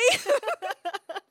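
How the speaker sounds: loud high laugh at herself; high nervous laugh. Real, not acted. Recalling following a stranger, loud high nervous laugh. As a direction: laugh out the nerves.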